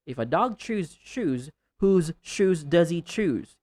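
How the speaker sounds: tongue twister with each word ending clearly voiced; careful, fully sounded endings; clear final sounds. Shown as a demonstration. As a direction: finish dog, chews, shoes, choose on clear last consonants. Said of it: "clearly utter the last sound of every word".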